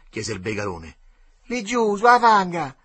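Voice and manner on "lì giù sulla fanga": high, loud shouting; boy yelling where the clothes are. A narrator's reading. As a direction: call it out across the riverbank. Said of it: "gridò lo Sgarone".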